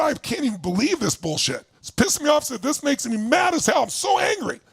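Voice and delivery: re-enacted angry outburst, pitch climbing; angry venting. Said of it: "I felt angry and mad as hell".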